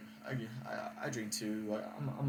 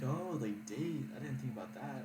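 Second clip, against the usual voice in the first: imitating the date; 5 semitones higher than usual. Voicing the date's surprise.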